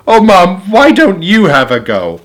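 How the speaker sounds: put-on mildly shouted child's appeal; shouted plea. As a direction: plead loudly, easing off toward the end. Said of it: "I shouted".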